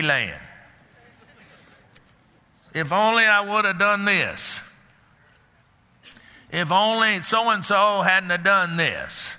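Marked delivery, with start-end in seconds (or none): 2.7-9.3 iffy people voice. Retold or imitated. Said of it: "living in iffies".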